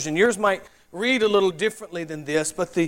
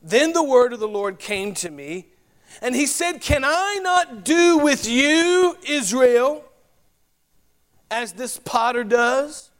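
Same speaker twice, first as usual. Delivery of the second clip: measured, projected Bible reading, often higher than plain talk; Scripture reading; 4 semitones higher than usual. Acted. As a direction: read the passage aloud to a congregation. Everyone ready?.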